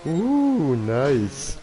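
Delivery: sudden high yelp of delight; excited. Real, not acted. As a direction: react with a thrilled high cry. Excited reaction.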